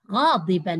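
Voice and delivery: غاضبا with an audible final "n", said as "ghadiban"; tanween sounded. Shown as a demonstration. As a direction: close غاضبا on a clear nasal "-an". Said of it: "الكلمة التي جاءنا فيها تنوين الفتح".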